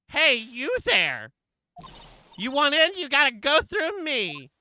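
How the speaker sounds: high, loud and slow guard bark. Acted. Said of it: "she's just gonna be pain, but pitched up".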